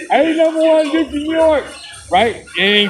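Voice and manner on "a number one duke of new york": hyped-up A number one. Pretend. Building hype for the Duke.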